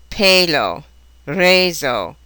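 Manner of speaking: long "ay" in "Pelo, reso"; elongated A sound. Shown as a demonstration. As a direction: say PAY-lo, RAY-zo with a stretched vowel. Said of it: "elongated A sound".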